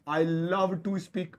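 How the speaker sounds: very slow, each word of "I love to speak" laid out clearly; slow model sentence. Shown as a demonstration. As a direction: model it slowly for the class. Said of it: "तो कैसे बोलेंगे?". (धीरे-धीरे साफ़ बोलकर)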